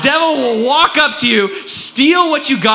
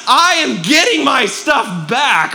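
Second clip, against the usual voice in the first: slow, high, emphatic declaration; acted determination; 4 semitones higher, slower than usual. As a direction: stand your ground on every word. Acts someone chasing the thief.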